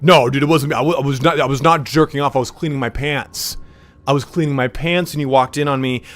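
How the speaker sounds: mock-panicked excuse, starting loud; hammed-up defensive protest; protesting denial. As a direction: act out a flustered, insistent denial. Acted denial of being caught.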